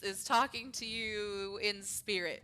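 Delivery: put-on slow, botched British accent; bad British with a Russian tinge; failed British accent. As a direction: attempt British, slipping towards Russian. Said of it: "That was not British. I apologize".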